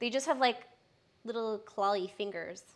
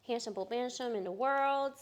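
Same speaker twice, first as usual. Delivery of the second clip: soft cooing; 5 dB quieter than usual. Real, not acted.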